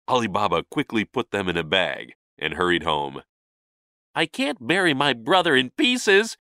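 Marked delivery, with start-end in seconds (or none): 4.1-6.4 higher-pitched worried musing; lightly voiced dismay to himself; troubled thought. A narrator's reading. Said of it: "he thought".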